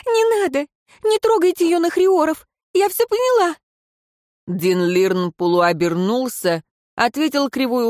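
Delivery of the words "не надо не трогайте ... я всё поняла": high, panicked pleading cry; desperate wife begging the adviser to spare the children; frightened cry. A narrator's reading. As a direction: stop him, voice leaping up in fear. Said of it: "и вскрикнула".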